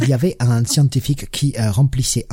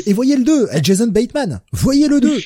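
higher, louder insistence; excited urging; 10 semitones higher, 4 dB louder than usual. Real, not acted. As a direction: push the sequel with gusto. Urging listeners loudly.

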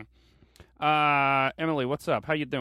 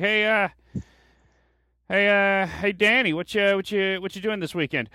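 higher and louder, hammed-up buddy calling across the cafeteria; mock coworker calling out; 6 semitones higher, 4 dB louder than usual. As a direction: play a pushy coworker hailing Danny.

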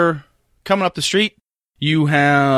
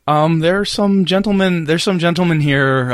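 put-on hesitant, slightly raised old man's voice; nervous grandpa; 5 semitones higher than usual. Grandpa announcing visitors at the door, nervous. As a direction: stammer it as an anxious grandfather. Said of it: "A very nervous Grandpa Thompson".

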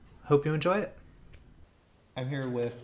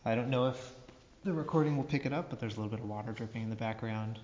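cave echo; faster than usual. Real, not acted. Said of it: "echo that we can hear".

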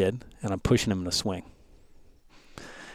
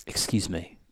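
put-on South African accent; 3 semitones lower, 7 dB quieter, slower than usual. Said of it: "he's got this South African accent".

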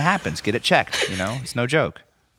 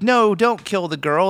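higher-pitched mock alarm; mock pleading; 6 semitones higher than usual. Cohost acting out viewers begging for the girl, mock pleading. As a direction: plead in a raised, playful voice. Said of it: "every emotion that you could have".

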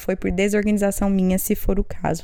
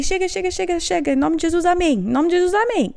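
higher, hurried mum shutting down the prayer; exasperated cutting off; 8 semitones higher than usual. Retold or imitated. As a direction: cut the child off with a rushed, high amen. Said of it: "Aí eu falei".

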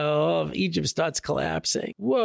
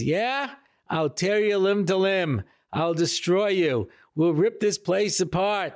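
battle threat; 4 semitones higher than usual. Retold or imitated. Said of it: "he came ready for battle".

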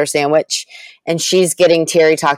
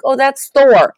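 put-on boyfriend answering; 7 semitones higher, slower than usual. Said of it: "he's like".

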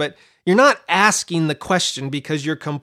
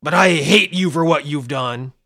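mock condescending God; 4 dB louder than usual. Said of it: "he doesn't say".

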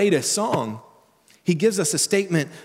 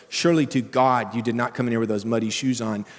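stern; 2 semitones lower than usual. Retold or imitated. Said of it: "It's even stronger".

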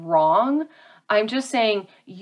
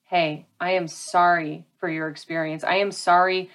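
sincere apology; 3 semitones lower than usual. Shown as a demonstration. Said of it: "And apologize".

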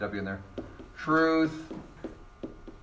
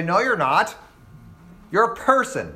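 mock objection; 4 semitones higher than usual. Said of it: "And they say".

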